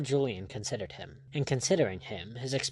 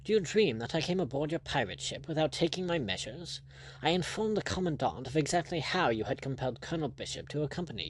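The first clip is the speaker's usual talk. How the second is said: higher-pitched, scornful English lord; haughty lordship; 3 semitones higher than usual. Acted. Lord warning Blood he took measures, haughty and scornful. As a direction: lecture the pirate like a superior lord. Narrator voices Lord Julian.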